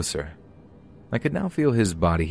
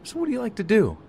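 creepy man voice; faster than usual. Retold or imitated.

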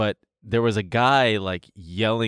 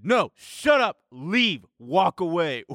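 much higher barked orders; retold yell; 7 semitones higher, slower than usual. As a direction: cut him off and send him away. Ordering drunk guy to leave.

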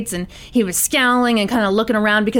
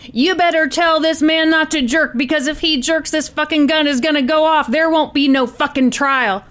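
higher, insistent gunman giving a warning; lightly acted threat from a hostage-taker; Tony; 5 semitones higher than usual. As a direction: warn them firmly, without shouting.

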